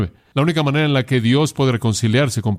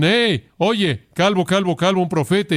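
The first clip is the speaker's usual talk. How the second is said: higher, taunting singsong chant of calvo; mock schoolyard taunt, pitched up; mocking youths; 6 semitones higher than usual. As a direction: jeer like a gang of kids teasing. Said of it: "jóvenes dicen".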